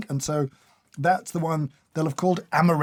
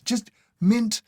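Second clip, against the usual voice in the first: emphatic, louder plea to be rid of it; exasperated rant; 3 semitones higher, 4 dB louder than usual. Real, not acted. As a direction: rant with mock outrage. Rants against mint in food.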